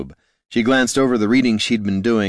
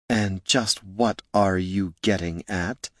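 demanding; 4 dB quieter, slower than usual. A narrator's reading. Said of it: "Loruna demanded".

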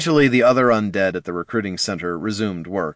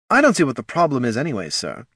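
quick, raised salesman voice; head of marketing; 5 semitones higher, faster than usual. Acted. Head of marketing shrugs off death to commander, dismissive. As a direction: brush the objection off quickly.

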